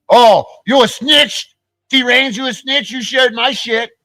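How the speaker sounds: high, slow sing-song sneer; mocking taunt. Real, not acted. Taunting T Rains for sharing his stuff, high mocking sneer.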